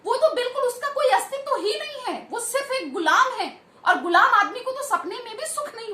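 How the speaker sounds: mild mock outcry, pitched a little up; imitated crying out. Teacher voicing Tulsidas's protest to God, imitated crying out. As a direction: plead emphatically, without really shouting. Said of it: "चिल्ला चिल्ला के कहते हैं".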